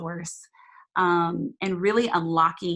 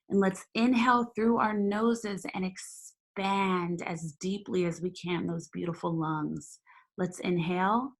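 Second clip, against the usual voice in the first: guided meditation. Acted. Leads a meditation.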